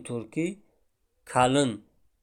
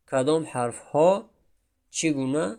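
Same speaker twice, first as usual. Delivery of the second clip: normal talking voice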